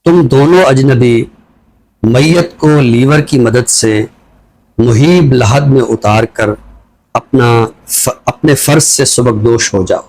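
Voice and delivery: slow, measured reading of a poem; poem recitation. Acted. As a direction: linger on each phrase. Poet recites his poem. (آہستہ اور ٹھہری ہوئی نظم خوانی)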